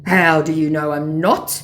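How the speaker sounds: loud put-on scammer question; challenging mock scammer.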